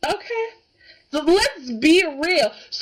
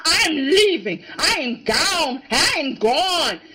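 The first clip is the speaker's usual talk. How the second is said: mock upset; 2 semitones higher than usual. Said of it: "Rick was upset. He's like".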